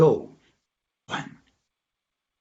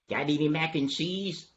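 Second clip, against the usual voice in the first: slightly raised, soft asking voice; hopeful question; 3 semitones higher, 5 dB quieter than usual. Acted. Donkey quizzes dog about food, lightly raised question. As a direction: lift it a little, hopefully.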